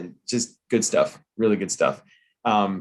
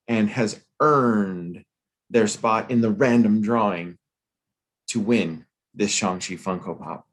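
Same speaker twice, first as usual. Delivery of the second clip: put-on Southern grifter accent. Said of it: "like a Southern gr-, grifter kinda".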